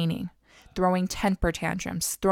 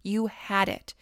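God's voice; 3 semitones higher than usual. Acted. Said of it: "just what Katie said".

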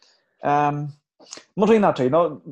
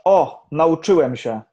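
slow, louder, smug mock declaration; mock self-satisfied; 6 dB louder, slower than usual. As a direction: announce it like you've finally mastered it all, half-joking. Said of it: "w którymś momencie stwierdzasz".

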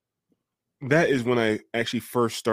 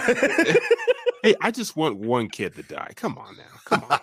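mock pleading; 8 semitones higher, 3 dB louder than usual. Jokingly pleads for a kid death.

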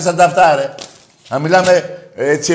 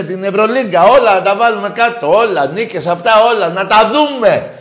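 louder, higher challenging rant; heated rant; 6 semitones higher, 4 dB louder than usual. Real, not acted. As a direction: dare them, voice raised. Host ranting at cowardly rivals. (φωναχτό, προκλητικό ξέσπασμα)

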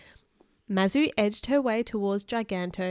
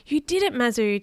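cheering; 3 semitones higher, 4 dB louder than usual. Acted. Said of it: "cheered her friends".

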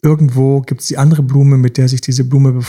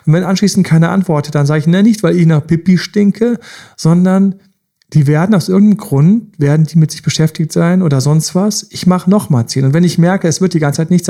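ordinary talk, nothing marked

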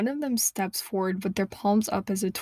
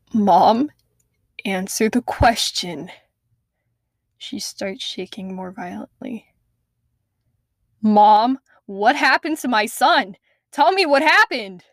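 loud, rising demand for the truth; desperate demand; 4 dB louder than usual. Acted. Lacey demanding her mother tell what happened to her son, loud. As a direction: press her hard, louder each time.

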